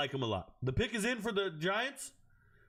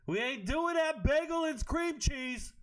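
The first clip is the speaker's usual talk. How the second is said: emphatic; 7 semitones higher than usual. Shown as a demonstration. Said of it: "repeated, louder and higher".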